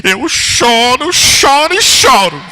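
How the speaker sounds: high, slow, wailing protest; mock wailing sister. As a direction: wail it out like a stubborn old sister. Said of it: "ficou com raiva e foi lá". (irmã chorosa e teimosa, voz aguda e arrastada)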